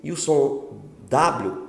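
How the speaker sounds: usual speaking voice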